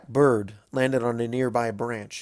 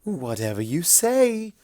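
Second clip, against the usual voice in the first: insincere; 5 semitones higher, slower than usual. Acted. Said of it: "her voice transparently insincere".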